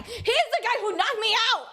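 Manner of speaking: Simon the Hedgehog voice. Acted. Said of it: "What the fuck kind of Simon the Hedgehog voice".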